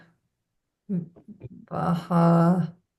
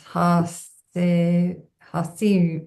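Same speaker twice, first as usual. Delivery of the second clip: syllable by syllable; slower than usual. Shown as a demonstration. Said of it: "syllable by syllable".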